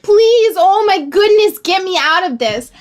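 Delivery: frantic panic. Retold or imitated. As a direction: beg to be rescued, voice jumping up. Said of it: "frantically panicking".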